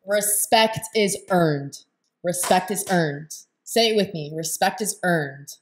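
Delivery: "Respect is earned" said slowly, each word weighted; emphatic mantra. Real, not acted. Woman has audience repeat "Respect is earned", slow and emphatic.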